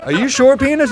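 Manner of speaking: high, disbelieving squeak of a question; incredulous. Retold or imitated. Asking his own penis, incredulous.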